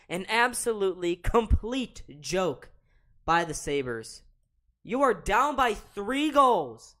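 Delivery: loud, high-pitched real tirade; mad. Real, not acted. Ranting at the Sabres down three goals, mad. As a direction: rail at the team, punching the words. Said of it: "I'm just mad".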